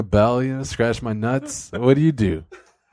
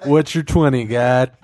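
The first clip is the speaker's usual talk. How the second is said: trucker CB radio talk. Pretend. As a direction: call God like a trucker on the radio. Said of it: "Like you're a fucking truck driver in the eighties".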